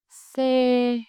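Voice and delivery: SE held high and flat; level tone. Shown as a demonstration. Teacher gives another thanh ngang example, SE high and level. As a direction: stretch SE on one high, level pitch. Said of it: "high and level".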